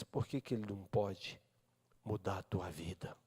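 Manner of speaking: breathy whispered question. Acted. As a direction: lean in and whisper it to them. Sermon's intimate closing question. (sussurrado, bem íntimo)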